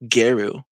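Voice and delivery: Garu as "GAIR-oo"; mispronounced Garou. Retold or imitated. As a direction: imitate the mistake, Garu with an "air" vowel. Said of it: "who used to say".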